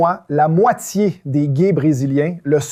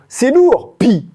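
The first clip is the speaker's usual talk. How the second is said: excited cry; 8 semitones higher, 4 dB louder, slower than usual. Real, not acted. Excited over swear words.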